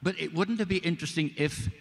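very high, wheedling pitch; eager pleading. Retold or imitated. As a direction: float a hopeful idea, pitched right up.

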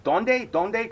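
repeated high "Donde?" questions; insistent asking. Retold or imitated. Lost on the tracks asking the guide, high insistent queries. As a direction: keep pestering where. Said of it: "I kept saying".

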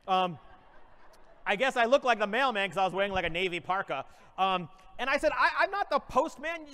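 mock-inspirational keynote voice; motivational speech. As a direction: address the crowd like a conference speaker.

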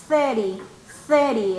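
thirty with the tongue between the teeth; model thirty. Shown as a demonstration. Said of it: "Es el mismo sonido".

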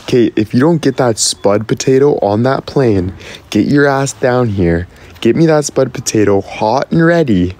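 playfully menacing demand with swooping pitch; mock threat. Streamer orders Kate to bring a potato, mock-threatening. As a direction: order it like a pretend ultimatum.

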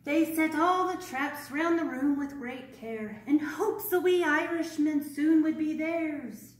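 put-on bright, lively read-aloud to children; story narration. A narrator's reading. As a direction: read the rhyme out to the class. Reads rhyming story aloud.

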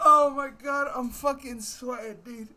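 high, loud voice still full of laughter; breathless, overcome with hilarity; worn out from laughing. Real, not acted. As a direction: reel from a huge laughing fit. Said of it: "makes me laugh so hard".

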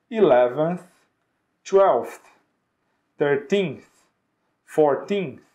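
each ordinal alone with pauses; model for repetition. Shown as a demonstration. Teacher leading repetition of ordinals eleven to twenty. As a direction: leave a gap after each for them to repeat. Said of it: "Vamos ver como é que continua".

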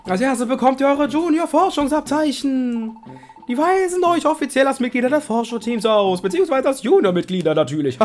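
high put-on Ampharos voice; lightly voiced friendly Ampharos; disguised Ampharos voice. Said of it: "Mit verstellter Stimme".

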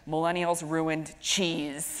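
slow, dramatic headline read; mock headline. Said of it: "articles that are like".

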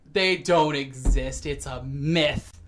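slow, loud, flat-out denial; drawn-out doubting scoff; mock dismissive. Everybody dismissing the gold dragon, slow mock scoff. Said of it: "and everybody's like".

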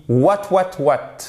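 baffled listener. Acted. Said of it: "la personne, elle dit".

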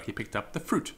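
fruit marked out at the end; stress on fruit. Shown as a demonstration. Teacher contrasting fruit with broccoli, stress on fruit. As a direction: land the point on fruit. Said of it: "emphasis on fruit as opposed to".

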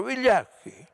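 high, ringing yell; shouted insult. A narrator's reading. A man in the crowd keeps shouting at the bombers. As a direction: fling it out again. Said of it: "urlò qualcun altro".

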